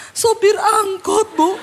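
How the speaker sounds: high, very slow whining voice; mock tearful woman, drawn out; mock weepy answer. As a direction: parody a sobbing complainer.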